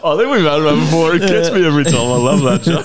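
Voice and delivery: loud, high, cracking-up delight; delighted laughing. Real, not acted. Comic tickled by a familiar joke, loud delighted laughing. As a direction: exclaim it through real laughter.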